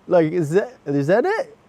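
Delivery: can't believe this is the sign; amused disbelief. Retold or imitated. Asking God in the queue, amused disbelief.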